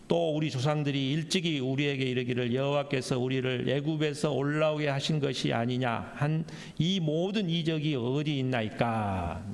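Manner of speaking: even, measured Bible reading; formal recital of scripture. Acted. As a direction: read the verse steadily, stretching the final question. Reads scripture aloud.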